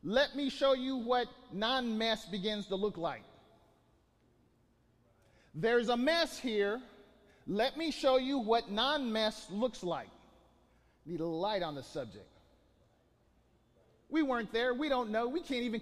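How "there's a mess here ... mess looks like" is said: slow emphatic repeat. Shown as a demonstration. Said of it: "God's words repeated slowly for weight".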